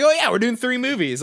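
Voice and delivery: high, breezy mock Tom Holland blurting it out; young star casually spilling a secret; careless actor. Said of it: "Tom Holland slipped up and was like".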